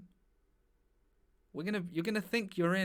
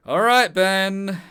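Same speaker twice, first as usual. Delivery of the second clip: mock stern call; 5 semitones higher, 12 dB louder, much slower than usual. Host mock-sternly addressing the pupil.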